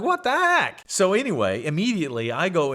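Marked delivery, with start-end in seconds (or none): 0.0-0.8 put-on high, loud kid outrage; loud, high exasperated yelp; indignant outburst. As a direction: blurt it out in high-pitched disbelief.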